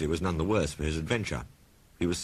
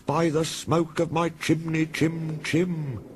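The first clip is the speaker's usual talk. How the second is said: slow, high, loud wailing ghost; ghostly threat; 7 dB louder, much slower than usual. A narrator's reading. Percy as ghost threatens Thomas, loud high wail. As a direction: howl the threat like a spectre.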